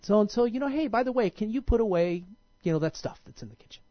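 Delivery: imitating a nice, breezy ask; nice, easygoing. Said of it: "a really nice, easygoing voice".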